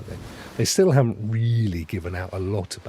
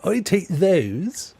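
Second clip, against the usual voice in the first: slow, higher rustic Bristol imitation; classic Bristol accent; 8 semitones higher, 4 dB louder, much slower than usual. Streamer imitates the pirate's line, classic Bristol accent. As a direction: draw it out in country Bristol. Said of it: "that's classic Bristol".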